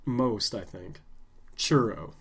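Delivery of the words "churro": CHURRO with a plain English R; untrilled R. Shown as a demonstration. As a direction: say churro with no trill, anglicized. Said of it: "I can't trill my R's".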